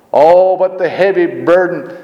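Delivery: "heavy" slowed and lifted; stress on heavy. Shown as a demonstration. Preacher emphasizing the word heavy for the congregation, slow. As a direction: lean hard on "heavy", drawn out. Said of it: "just to emphasize the word heavy".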